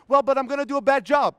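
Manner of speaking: the lazy inner voice pushing back loudly; whiny excuse. Retold or imitated. Lazy inner voice answering himself, loud whine.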